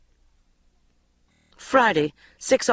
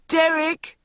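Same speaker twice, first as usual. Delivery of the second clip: mock yell; 11 semitones higher, 4 dB louder than usual. A narrator's reading. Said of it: "yelled the cameraman".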